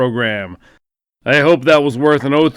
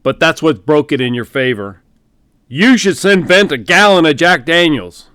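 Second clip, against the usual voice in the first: booming general; 3 semitones higher, 5 dB louder than usual. Acted. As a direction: boom it down the phone line like a hearty general. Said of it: "He continued booming into the phone".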